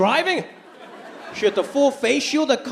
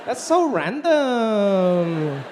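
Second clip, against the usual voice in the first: snobby disdain; 2 semitones higher, much slower than usual. Retold or imitated. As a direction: sneer it like a judgy teen. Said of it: "looked at her as like".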